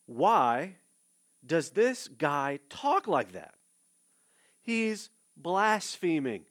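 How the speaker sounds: outraged accusation of blasphemy; indignant scribes. Acted. Voicing the scandalized scribes.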